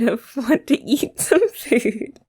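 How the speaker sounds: slow whisper with a giggle in it; giggly whisper. Acted. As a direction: whisper it slowly, half laughing. Playful flirt after eat you up.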